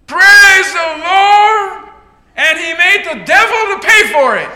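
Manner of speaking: high, loud, long first words, then laughing; gleeful praise shout. Acted. Old lady answers the neighbour with triumphant laughing praise. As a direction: sing out the praise, then crow the punchline. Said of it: "She looks and says".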